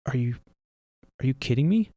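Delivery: stunned, halting disbelief. Retold or imitated. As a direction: ask it like you can't believe your eyes. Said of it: "I say".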